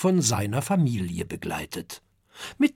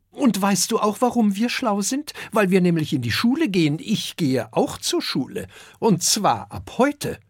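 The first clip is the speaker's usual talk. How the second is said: put-on high, fast, excited child brag; little dragon bragging about starting school; proud boasting; 9 semitones higher, 4 dB louder than usual. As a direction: show off eagerly.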